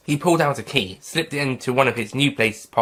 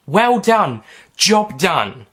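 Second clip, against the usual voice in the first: louder, higher cheerful praise; hearty congratulations; 7 semitones higher, 5 dB louder, much slower than usual. Acted. Kate congratulating.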